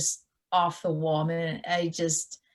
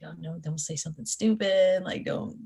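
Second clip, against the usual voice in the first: nervous inner voice. Retold or imitated. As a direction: fret silently not to blurt. Nervous inner voice meeting idol.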